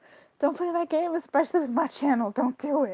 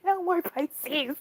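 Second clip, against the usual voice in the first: slow mock decree; 6 semitones higher, much slower than usual. Repeated slowly.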